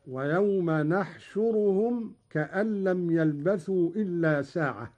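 نحشرهم begun with a clear n; nun of majesty. Shown as a demonstration. Teacher showing Qalun's reading, نحشرهم with nun. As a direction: sound an n, not y, at the start of نحشرهم. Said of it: "قرأ قالون بنون العظمة".

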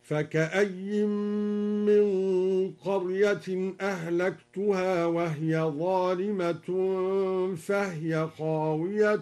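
measured tajweed recitation with long held vowels; Qur'anic recitation demo. Shown as a demonstration. Teacher demonstrates al-Duri's reading of the verse, measured recitation. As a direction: recite the verse, drawing out the elongations. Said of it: "بالياء هكذا".

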